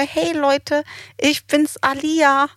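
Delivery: put-on high, slow little-girl Mickey Mouse voice; imitating a small child's high cartoon voice at the mic. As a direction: squeak it out like a tiny cartoon mouse. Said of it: "in ihrer kleinen Mickey-Maus-Stimme".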